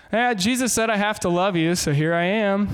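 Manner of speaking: a touch of grudging, reluctant love; lightly hammed reluctant Christian; mock begrudging. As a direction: sigh it out like you have to. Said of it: "Don't love begrudgingly".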